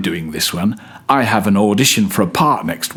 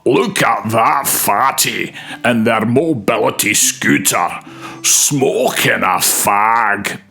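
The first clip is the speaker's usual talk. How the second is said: put-on judgmental Scottish gangster accent, hushed and sneering; Scottish gangland boss. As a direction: sneer it like a Glasgow hard man in Scottish. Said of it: "the judgmental voice in my Scottish gangland boss audition voice".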